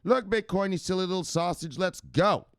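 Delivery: high-energy host opener; hyped opener. Real, not acted. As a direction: kick off the show with a bang. Show opener, called out high.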